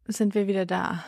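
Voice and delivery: soft unvoiced whisper. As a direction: whisper it like a secret. Whispered podcast return.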